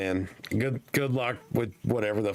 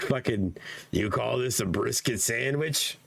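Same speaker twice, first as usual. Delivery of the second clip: lightly voiced New York complainer; a hint of indignant New York accent; angry Jewish New Yorker. Complaining over a deli sandwich, mild mock New York accent. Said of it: "do the angry Jewish lady voice".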